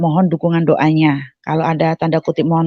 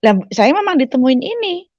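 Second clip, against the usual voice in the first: high-pitched retold amazement; retold astonishment; 9 semitones higher than usual. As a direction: insist in high-voiced amazement. Astonished patient insists to the nurse. (heran dengan nada tinggi)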